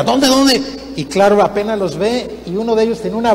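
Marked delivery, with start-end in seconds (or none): 0.0-0.6 high-pitched panicky question; mock panic, pitched up; crybaby's alarm. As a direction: imitate a frightened boy frantically asking where. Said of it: "collón significa llorón".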